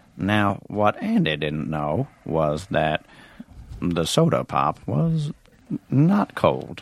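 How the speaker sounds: deep, very slow narrator voice. Trying out an impression for the others: Morgan Freeman impersonation. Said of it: "tell me if this sounds like Morgan Freeman".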